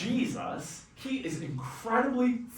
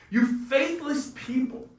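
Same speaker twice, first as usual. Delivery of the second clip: higher, exasperated rebuke; mild rebuke; 6 semitones higher than usual. Acted. Jesus scolding the faithless crowd, mildly exasperated. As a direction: scold them with a touch of exasperation.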